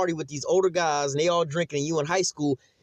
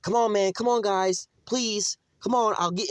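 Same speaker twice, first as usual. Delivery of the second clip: higher, mocking a pleading mother; mock pleading mom; 7 semitones higher, slower than usual. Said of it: "Moms be like".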